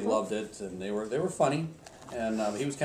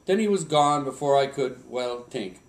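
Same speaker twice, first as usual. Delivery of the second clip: put-on Swedish accent; 2 semitones higher, 6 dB louder than usual. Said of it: "in my best Swedish accent".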